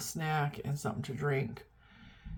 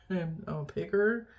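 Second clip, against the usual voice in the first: laughing confession; slower than usual. Real, not acted.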